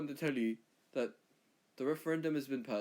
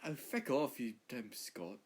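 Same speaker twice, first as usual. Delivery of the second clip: mock English retort; 3 dB quieter, slower than usual. Englishman telling off the Scot in a light English accent. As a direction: snap back at the Scot in a lightly put-on English voice. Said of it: "frick England".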